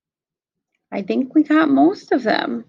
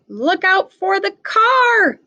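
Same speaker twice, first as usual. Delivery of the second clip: a higher, slow read-aloud warning cry; mild storybook yell; 7 semitones higher, slower than usual. Acted. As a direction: call out the warning as Cleo, lightly. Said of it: "yells Cleo".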